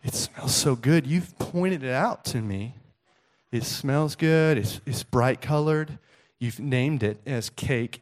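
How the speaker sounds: slow, halting, lightly acted hurt; mock teary son. Son accusing dad of luring him, mock wounded. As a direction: plead your case like a wronged child. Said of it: "he gets a little teary-eyed".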